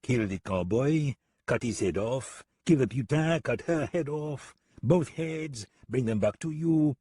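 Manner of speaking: put-on French-accented musing, climbing in pitch; tallying, trailing off. French gunman totals the cost for deputy, tallying. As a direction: list each job as if adding up. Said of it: "He let his words trail off".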